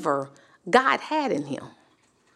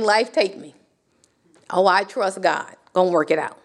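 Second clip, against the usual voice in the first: mock resigned surrender; 6 semitones lower than usual. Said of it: "laying down and saying".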